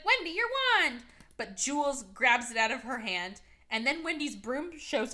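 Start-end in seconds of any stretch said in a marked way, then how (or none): 0.1-1.0 high calling out; calling to Wendy, a high mock shout; 1 mock yell. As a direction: yell it across the room. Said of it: "Casper's like".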